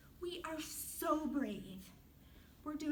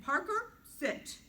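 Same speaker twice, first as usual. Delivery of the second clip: calling the dog; 5 semitones higher, 6 dB louder, slower than usual. Retold or imitated. Scolding the dog in story.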